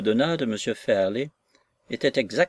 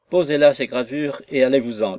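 annoyed; 5 dB louder than usual. Acted. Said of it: "d'un air contrarié".

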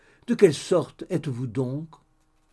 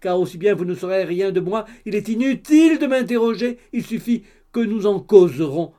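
the gossip mother, louder and excited; 4 semitones higher, 5 dB louder than usual. Acted. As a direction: blurt it all out like a chattering busybody. Madame d'Alin's loud chatter. (la mère bavarde, plus fort et excitée)

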